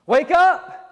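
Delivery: Christian shouting at the sleepers to wake up; urgent wake-up shout. Acted. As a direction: shake them awake with your voice. Christian rouses the sleepers, stronger.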